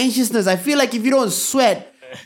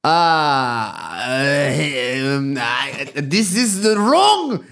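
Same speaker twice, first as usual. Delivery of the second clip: slow, groping fake German accent; badly faked German, stretched out; attempted German accent; 6 semitones lower, much slower than usual. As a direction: search slowly for a German accent.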